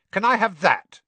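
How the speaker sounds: high, eager spoilt schoolboy; spoilt boy voice. Acted. Draco speaks to the shopkeeper.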